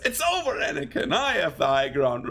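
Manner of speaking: a hint of a hammy, overdramatic Jedi; overdramatic Obi-Wan. Fan quoting Obi-Wan to viewers, mildly overdramatic. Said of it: "he's so overdramatic when he says".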